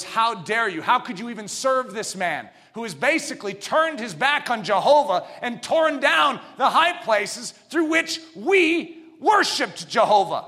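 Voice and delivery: mock outraged accuser; accusing. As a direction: hurl the charge at Hezekiah. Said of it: "he was being accused of".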